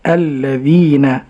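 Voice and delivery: very slow الذين with a long held ee; careful repetition. Shown as a demonstration. Student echoing the sheikh's الذين, slow and careful. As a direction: stretch الذين out, ending on a voweled na. Student repeats the model slowly.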